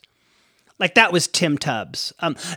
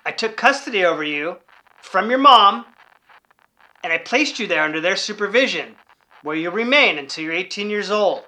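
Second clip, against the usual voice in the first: stern dad; 3 semitones higher than usual. Retold or imitated. Dad lays down the verdict.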